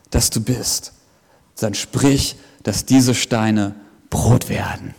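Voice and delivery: low, soft menacing tempter; devil's voice. Acted. Devil taunting Jesus in the desert, low and menacing. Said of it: "Und er sagt zu Jesus".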